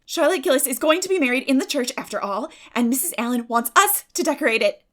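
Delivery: put-on girl eagerly guessing news; eager cry. A narrator's reading. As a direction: blurt out the guess. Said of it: "cried Anne".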